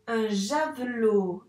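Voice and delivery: slow blend. Shown as a demonstration. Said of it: "blended slowly after sounding".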